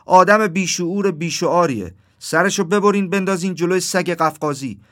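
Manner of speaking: high, loud crow's outburst; angry shout. A narrator's reading. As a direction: shout out a furious verdict. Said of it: "داد زد".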